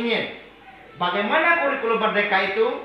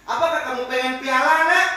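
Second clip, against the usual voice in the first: high, enticing offers of rewards; teacher demonstrating the monitor, sweetly bribing; 4 semitones higher, 4 dB louder than usual. Shown as a demonstration. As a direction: tempt the child with prizes. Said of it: "Ini apa? Pemantau".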